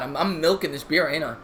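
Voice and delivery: usual speaking voice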